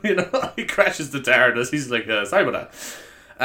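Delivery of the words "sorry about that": slow sheepish Irish Doctor; Dougal from Father Ted. Acted. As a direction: draw out a mock apology as an Irish Doctor. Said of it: "would be Dougal from Father Ted".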